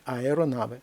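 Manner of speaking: Аеронаве with а and е distinct, falling; separate vowels. Shown as a demonstration. Teacher shows separate sounds, no diphthong. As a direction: keep а and е apart opening Аеронаве. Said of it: "окремі звуки".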